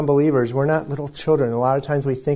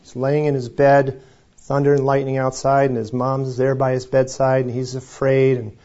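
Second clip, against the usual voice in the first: ordinary talk, nothing marked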